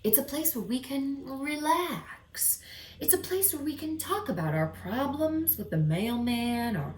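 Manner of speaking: a hint of a proud club owner; dog confiding. Dog revealing his secret club to owner, lightly voiced. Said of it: "And then my dog said".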